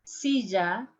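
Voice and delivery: silla said as "sizha"; zh sound. Shown as a demonstration. Teacher demos chair with zh. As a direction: silla voiced like measure. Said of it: "pronounce the three different ways".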